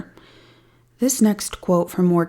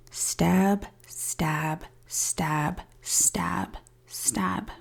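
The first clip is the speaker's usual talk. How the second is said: whispering; 6 dB quieter, much slower than usual. Retold or imitated. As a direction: whisper each word, fading away. Retold flat confession of stabbing.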